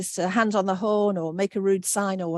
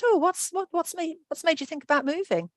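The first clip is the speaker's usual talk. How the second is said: gentle question; 9 semitones higher than usual. Retold or imitated. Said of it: "Whereas if I'd said".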